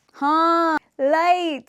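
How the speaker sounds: startled, high and loud; surprised. Real, not acted. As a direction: caught off guard. The light fails to switch off.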